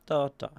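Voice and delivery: Da, da as two separate beats; rhythm demo. Shown as a demonstration. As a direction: tap out Da, da like a metre.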